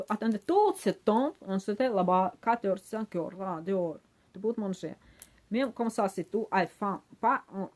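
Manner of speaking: loud, worked-up scolding; exasperated rant. Retold or imitated. Passenger berating seatmate for eating smelly food on board, exasperated rant. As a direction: retell it as an indignant outburst. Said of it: "Je commence à me passer vraiment".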